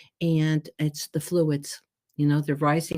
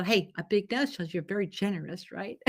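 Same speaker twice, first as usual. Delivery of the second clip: quoted with a laugh; 2 semitones higher, 4 dB quieter than usual. Retold or imitated. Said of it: "And they go".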